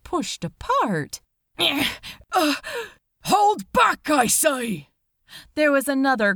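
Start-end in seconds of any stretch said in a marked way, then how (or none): 1.6-4.9 high, loud, fussy gentleman's call; flustered shout. A narrator's reading. Angel nervously echoing the officer's order in the crowd. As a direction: try to sound firm but flustered.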